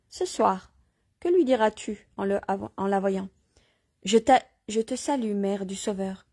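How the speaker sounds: measured reading aloud with light dialogue; story narration. Acted. Reader telling listeners of Joachim, story narration. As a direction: read the tale out, lightly voicing questions.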